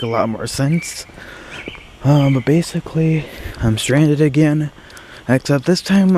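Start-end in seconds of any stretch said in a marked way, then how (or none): 2.0-6.2 shivering from cold. Real, not acted. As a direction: voice trembling in the cold. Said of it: "I'm just a little cold".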